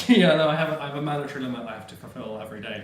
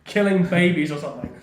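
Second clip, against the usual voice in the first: weary cop, slow and loud; fed-up Gordon voice; 5 semitones higher, 7 dB louder than usual. Retold or imitated. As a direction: throw it all away, disgusted. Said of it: "Gordon just turns around and is like".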